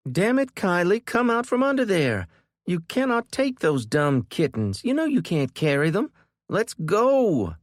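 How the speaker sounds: big sister losing her temper; angry yelling. A narrator's reading. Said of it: "She was yelling, loudly".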